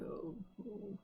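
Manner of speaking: faint, barely voiced moaning; weak murmured groans. Injured half-elf on the cart murmurs faintly. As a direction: moan like a half-conscious wounded man. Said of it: "murmuring to himself".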